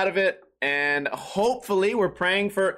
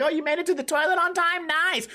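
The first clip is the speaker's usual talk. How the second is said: much higher, teasing congratulations; mock cheering friends; 9 semitones higher than usual. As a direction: play the friends ribbing him.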